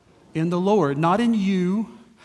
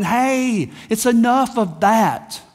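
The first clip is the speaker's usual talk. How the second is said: raised, drawn-out imitated reprimand; God's rebuke; 3 semitones higher, slower than usual. God to struggling believers, emphatic imitated rebuke. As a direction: cut them off, then stretch the order. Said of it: "God looking at us going".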